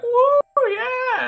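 high, loud party whoop. Retold or imitated. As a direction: whoop it up like dancers on the tables. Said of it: "going like".

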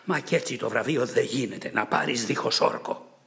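understated furious shout at Antilochus; angry shout. Acted. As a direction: call him out, mildly enraged. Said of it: "χόλιασε μαζί του και φωνάζει".

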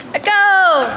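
shouted into an echoing tunnel; metallic flutter echo. Real, not acted. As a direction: call out and let it ring back. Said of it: "Listen to this echo".

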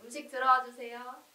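loud call to the next room. Real, not acted. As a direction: call the food in, loudly. Calling food in from offstage. (크게 부르는 목소리)

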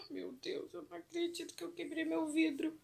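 high laughing gasp of disbelief; real nervous laugh over the broken glass. Real, not acted. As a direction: laugh it off in shock.

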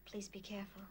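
quiet. Acted. Wife worries as Mike leaves.

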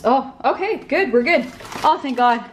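happy relief, quick; relieved. Real, not acted. Relief, enough flour.

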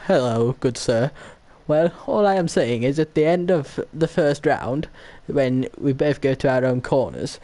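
mock-posh Queen's English, lilting and emphatic; exaggerated upper-class English send-up. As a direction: put on a hammed-up posh English accent. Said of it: "speak Queen's English".

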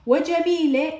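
وجميلة slowly, its ة softened to h; pausal ha ending. Shown as a demonstration. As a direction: say وجميلة as "wa-jamee-leh", no t. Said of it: "هاء، قلت جميلة".

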